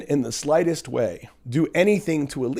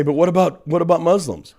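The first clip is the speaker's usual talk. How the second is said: mocking whine; 4 semitones higher, 5 dB louder than usual. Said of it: "a sick way for people ... to say".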